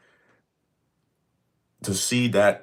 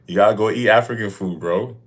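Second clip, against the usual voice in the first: joking; 3 semitones higher, 5 dB louder than usual. Real, not acted. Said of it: "No, I'm just kidding".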